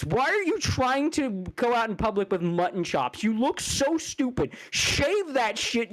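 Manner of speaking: real angry tirade; furious rant. Real, not acted. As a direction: tear into him, voice climbing. Raging insults at YouTuber.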